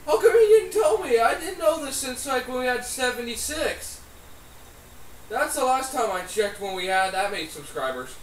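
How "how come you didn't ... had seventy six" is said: indignant surprise. Real, not acted. Co-host complains nobody told him, indignant surprise. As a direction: burst out, put out at not being told. Co-host protests being left out.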